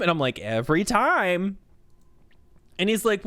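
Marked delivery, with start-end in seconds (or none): 0.4-1.6 "Every time" said slowly, falling and matter-of-fact; flat confirmation. Retold or imitated. Speaker answering the coworker, slow and deadpan. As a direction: settle "Every time" down, plain and sure.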